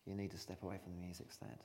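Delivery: hushed, firm repeat. Shown as a demonstration. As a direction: drop the voice for the second time. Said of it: "repeated line".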